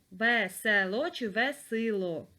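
slow "Весело чи весело?", the Е, then the И; slow contrast. Shown as a demonstration. Teacher asks pupils which vowel "Весело" has. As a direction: set "Весело" and "весело" against each other slowly. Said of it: "Буква Е".

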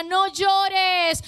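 "no llores" shouted out with full force; strong no llores. Shown as a demonstration. Pastor to congregation, now giving "no llores" strongly. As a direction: give "no llores" everything you have. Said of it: "usted tiene que dárselo fuerte".

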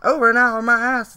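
loud scoff. Real, not acted. Scoffing at clip's claim.

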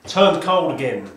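talking through a scarf; muffled through scarf. Real, not acted. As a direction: scarf over the mouth, muffled. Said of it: "apologies for the scarf".

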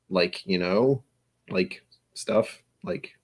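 mock filler-heavy American speech; American accent. Shown as a demonstration. Streamer coaching Australian friend, in exaggerated casual American accent. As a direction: parody casual American talk with trailing filler words. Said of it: "his best American accent".

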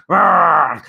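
playful dragon roar; mock roar.

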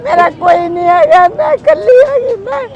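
real tearful crying, pitched high; weeping out her loneliness. Real, not acted. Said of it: "ਨਹੀਂ, ਰੋਂਦੀ ਕਿਉਂ ਮਾਤਾ?". (ਰੋਂਦੀ ਹੋਈ ਆਵਾਜ਼)

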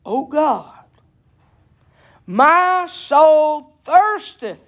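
slow, measured Bible reading with drawn-out words; scripture reading. A narrator's reading. Preacher reads Psalm forty-two to the congregation, slow solemn scripture reading. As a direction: read the psalm out in long, weighted phrases.

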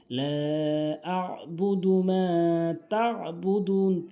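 slow melodic tilawat; Quran recitation. Shown as a demonstration. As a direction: chant each verse slowly and evenly. Quran recitation, teacher demonstrates. (ধীরে সুর করে কুরআন তেলাওয়াত)

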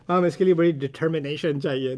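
determination said American-style amid Urdu; American-accented English word. Shown as a demonstration. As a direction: keep determination plainly American in the Urdu line. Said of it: "I'm not gonna say".

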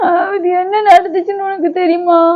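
whiny mock sob; put-on crying. Wife whining to husband about what happened, mock crying. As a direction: complain through fake tears. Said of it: "நீ ஏன் அழுகுறன்னு கேட்டேன்".

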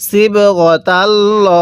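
slow, drawn-out tajweed chant; Quran recitation. Shown as a demonstration. Teacher recites the verse for students, slow tajweed chant. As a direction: intone each syllable slowly like a reciter. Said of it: "কিভাবে পড়ব?".

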